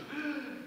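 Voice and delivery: sharp mock gasp; a short high gasp as if clutching the heart. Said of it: "he just goes".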